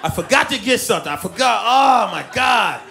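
suddenly remember the gift, alarmed; husband panicking about the gift; panicked realization. Retold or imitated.

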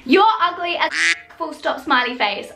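yelling a comment written in capitals; shouted in capitals. Shown as a demonstration. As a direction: shout it out like all caps. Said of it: "so I have to shout".

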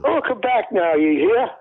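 a light Southern drawl, welcome back now, you hear; Southern drawl sign-off. Pretend. Tom does his Southern sign-off for the host in a mild drawl. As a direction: lay on a mild cowboy twang for the sign-off. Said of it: "You always do it so well".

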